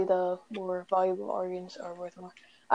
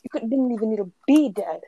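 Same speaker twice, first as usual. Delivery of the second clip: loud scolding rant; angry rant; 5 dB louder than usual. Real, not acted. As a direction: chew him out hard. Chewing out teammate after death.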